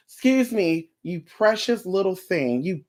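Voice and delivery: slow, softened, exaggerated politeness; mock-sweet. Reader correcting herself to the client, slow mock-sweet. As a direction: correct yourself with drawn-out sweetness.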